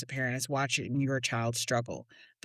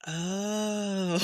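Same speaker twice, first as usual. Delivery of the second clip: dawning realization; 3 semitones higher, 3 dB quieter than usual. Retold or imitated. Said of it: "And he goes".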